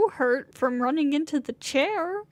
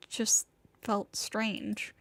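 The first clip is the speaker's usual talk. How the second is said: quiet; 4 semitones lower, 5 dB quieter, much slower than usual. Acted. Shaken character trailing off.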